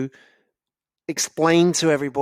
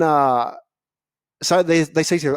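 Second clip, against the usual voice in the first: normal talking voice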